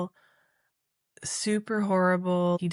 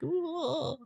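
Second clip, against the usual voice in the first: high, soft, wavering ooh; imitated flustered squeal; spastic noise; 11 semitones higher, 6 dB quieter than usual. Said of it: "kind of spastic and like".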